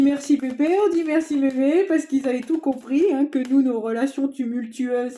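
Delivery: loud, high-pitched proclamation; exclaimed thanks. Acted. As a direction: belt out the grateful conclusion, high and loud. Exclaimed mock thanks to the grandparents.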